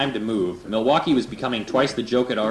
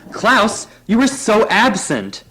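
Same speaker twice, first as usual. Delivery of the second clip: high, loud camp squeal, drawn out; flamboyant hairdresser; 10 semitones higher, 7 dB louder, much slower than usual. Acted. Hairdresser greeting Klaus, high camp squeal. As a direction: gush like an over-the-top stylist. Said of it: "came scripping across the parlor".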